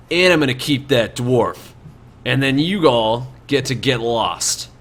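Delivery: a hint of menacing highwayman; domineering bandit leader. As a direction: lay down terms to the travellers.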